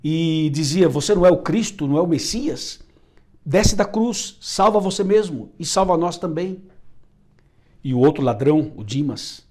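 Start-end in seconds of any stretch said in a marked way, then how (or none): 0.9-6.6 mocking blasphemy. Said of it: "Gestas blasfemava intensamente".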